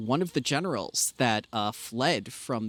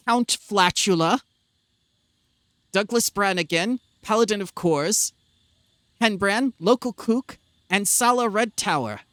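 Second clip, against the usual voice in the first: herald announcing; 6 semitones higher, 4 dB louder than usual. Acted. Steward announces guests to royalty.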